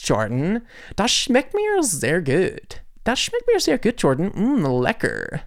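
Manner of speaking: put-on slow, drawn-out German accent; hammed-up German tasting a beer. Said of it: "That's exactly what Germans sound like".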